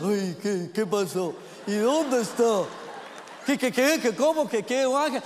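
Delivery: lightly voiced flustered disciple, stammering questions; mock confused Peter. Preacher mocking Peter's confusion to the congregation, lightly voiced. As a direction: play Peter lost for words, tripping over qué. Peter baffled by the empty tomb.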